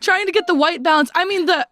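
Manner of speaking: high, laughing through the words. Real, not acted. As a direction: crack up mid-sentence. Both cracking up laughing.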